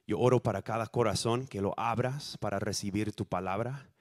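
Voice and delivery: ordinary talk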